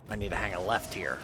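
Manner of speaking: quiet unvoiced whisper to himself. Real, not acted. Streamer finding his way through the level, whispering. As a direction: whisper the direction under his breath.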